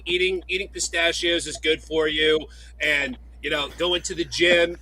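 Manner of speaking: lightly done impression of a gym-loving friend; cheap-copy take on a fitness promoter addressing fans; Blake. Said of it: "That was like Temu Blake".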